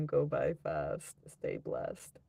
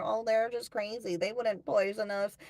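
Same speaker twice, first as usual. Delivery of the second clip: higher, sing-song mocking of the doubters; mocking skeptics; 5 semitones higher than usual. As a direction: parrot the naysayers in a lightly higher, silly voice.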